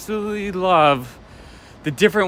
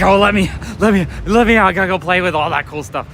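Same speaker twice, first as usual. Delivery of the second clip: put-on baby voice; 5 semitones higher, 3 dB louder than usual. A toy shop owner voicing the strapped-in baby, long high wail. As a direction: whine like a trapped baby begging to get out. Voicing the baby's wish to escape.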